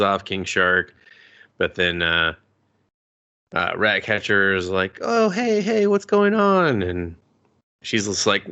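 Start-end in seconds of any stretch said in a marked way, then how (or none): 5.0-6.8 high, drawn-out "hey" to cut in; acted interjection. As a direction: pitch it way up, louder, stretching the words. Acts out Ratcatcher interrupting the fight.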